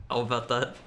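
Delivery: low, slow talking bucket voice; slow, deep voice of a talking bucket. Pretend. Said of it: "Haru bucket voice".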